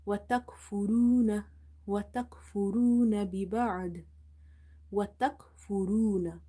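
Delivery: وتكفرون with a thick, rounded "ruu"; heavy ra. Shown as a demonstration. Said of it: "Ra is heavy".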